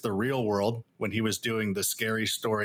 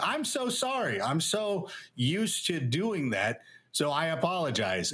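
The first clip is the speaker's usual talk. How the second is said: slow, overdone apology starting much higher; mock apology; 4 semitones higher, slower than usual. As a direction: ham up a grovelling sorry, drawn out. Retold apology to colleague.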